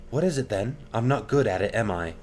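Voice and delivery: tiefling rogue, gruff Scottish lilt, defensive; brusque Scots girl, prickly; Anna, Scottish lilt. Acted. Voices Anna hurt.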